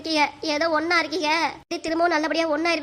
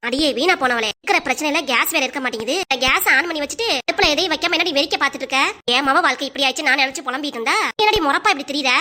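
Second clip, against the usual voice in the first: scolding. Acted. Mother scolding daughter in kitchen.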